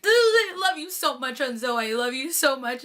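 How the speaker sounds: crazy fangirl gushing. Retold or imitated. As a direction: gush like a smitten fan, playfully. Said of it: "I'm totally, like, being crazy".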